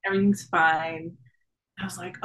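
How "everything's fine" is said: hushed, floating wonder; blissful and dreamy. Retold or imitated. Quoting blissful floating thought.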